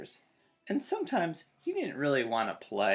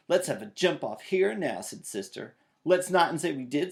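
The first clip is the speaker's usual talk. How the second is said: challenge; 3 semitones higher, 6 dB louder than usual. Acted. Jump-off rivalry.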